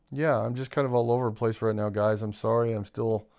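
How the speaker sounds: groggy after the dentist; sedated. Real, not acted. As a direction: talk drowsy and a bit slurred. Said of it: "a little drugged up from the dentist".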